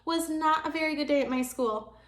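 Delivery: put-on high, loud child calling for grandma; little girl hollering for her grandma. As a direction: holler it across the house like an excited kid. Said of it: "hollered for my Grandma".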